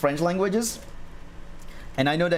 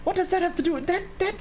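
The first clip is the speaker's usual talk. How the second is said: incredulous; 3 semitones higher than usual. Retold or imitated. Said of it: "I was like".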